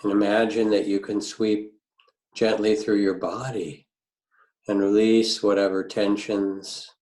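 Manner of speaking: unhurried grounding meditation with long pauses; calm meditation teacher, phrase by phrase; guided meditation. Real, not acted. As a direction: guide listeners gently into the body, leaving space between phrases.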